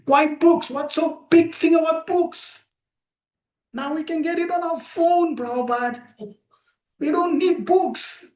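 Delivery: high, incredulous questioning voice; skeptical challenge. Pretend. Disciples doubting their guru, high and incredulous. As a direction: scoff at the idea of books, pitched well up.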